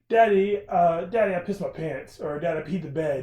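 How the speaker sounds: mock whiny child calling its dad; a kid calling out to daddy; American kid. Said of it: "He's like".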